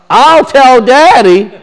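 drawn-out, mock tattletale threat; lightly hammed-up sibling snitching; tattling brother. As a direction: play a kid telling on a sibling, stretching it slowly. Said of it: "And so they're telling Daddy on Yosef".

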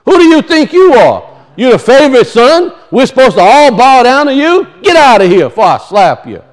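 mildly scornful telling-off of a favored sibling; harsh scolding. Acted. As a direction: act out resentful brothers putting him down. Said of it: "that's how they were speaking to Yosef at a time, harshly".

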